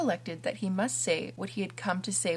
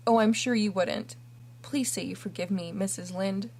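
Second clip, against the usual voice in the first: pleading. Acted. Kneeling orphan begs forgiveness.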